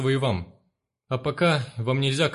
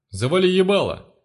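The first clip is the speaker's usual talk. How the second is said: higher, louder snarl; cutting him off; 6 semitones higher, 5 dB louder than usual. Acted. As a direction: bite off his plea. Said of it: "оборвал его Одноглазый".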